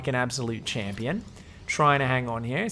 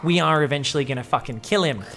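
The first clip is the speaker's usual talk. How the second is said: mock panic. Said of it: "The Marines are like".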